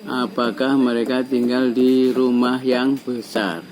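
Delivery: statement words read as a slow question; questioning tune. Shown as a demonstration. Teacher modelling a question for the class, slow rising tune. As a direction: let the tune ask the question. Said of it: "nadanya bertanya".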